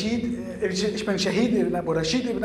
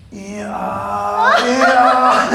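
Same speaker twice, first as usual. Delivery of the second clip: laughing; 3 semitones higher, 7 dB louder than usual. Acted. Laughing agreement.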